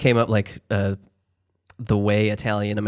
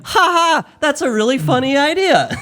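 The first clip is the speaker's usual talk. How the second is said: high, stiff robot laugh; 5 dB louder than usual. Retold or imitated. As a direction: read it like a chipper chatbot. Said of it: "And Chat G P T said".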